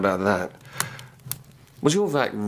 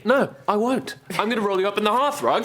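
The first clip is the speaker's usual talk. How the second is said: laughing threat; 8 semitones higher than usual. Acted. Playful ragging, threatening in fun.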